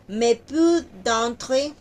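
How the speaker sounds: "d'entre" as one syllable, slowly; slow French demo. Shown as a demonstration. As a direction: run "d'entre" together. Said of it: "d'entre no es de entre". ("d'entre" en una sílaba)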